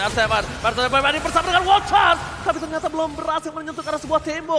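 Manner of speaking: esports caster. Real, not acted. Live esports play-by-play.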